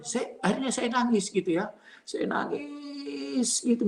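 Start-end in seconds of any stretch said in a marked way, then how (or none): 2.1-3.8 high, long drawn-out mock whine; mock wail. Preacher retelling his crying over his child, mock wail. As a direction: stretch the word into a pretend wail.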